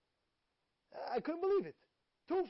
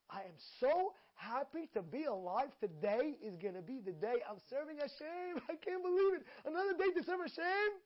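overjoyed; 5 semitones higher than usual. Pretend. A listener waking up and thrilled to serve, joyful outburst. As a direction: burst out with joy at being alive. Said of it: "But when you get up".

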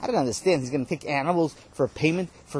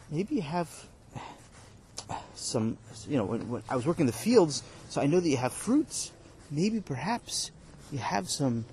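pleading worker; 4 dB quieter than usual. Acted. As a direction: drag out each maybe, humbly.

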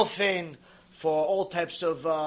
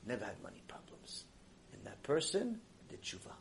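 hushed whisper; 9 semitones lower, 18 dB quieter than usual. Real, not acted. Preacher drops to whisper.

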